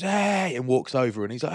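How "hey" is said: high, loud imitated call; mock-boisterous "hey" from afar; hearty greeting. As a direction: hail a mate across the room. Acts out friend greeting him across restaurant.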